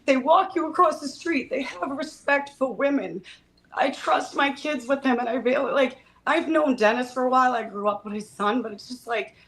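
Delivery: choked up, fighting back tears; crying. Real, not acted. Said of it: "I'm crying on the first one".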